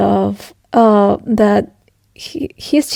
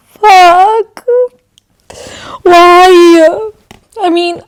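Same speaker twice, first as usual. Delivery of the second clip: upset outburst; 8 semitones higher, 7 dB louder, much slower than usual. Real, not acted. Emotional reaction to book.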